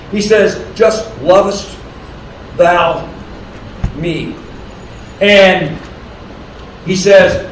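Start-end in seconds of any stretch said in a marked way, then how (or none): 0.7-4.3 "lovest ... thou ... me" with a pause after each word; pared-down question. Retold or imitated. Preacher quoting Christ's shorter question to Peter, spaced out word by word. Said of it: "takes off the "more than these".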